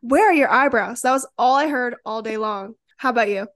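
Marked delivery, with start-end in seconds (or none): 0.0-1.0 loud, taunting schoolyard jab; a louder mocking tease; mocking kid. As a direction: throw it out like a mean kid. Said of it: "it was like".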